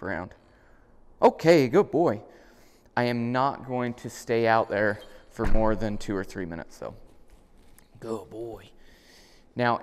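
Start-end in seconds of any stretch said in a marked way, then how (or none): 1.2-2.2 high, loud, drawn-out praise; excited puppy praise. Real, not acted. 8.0-8.7 quiet, tender praise to a puppy; soft praise. Real, not acted. Praises puppy softly afterwards.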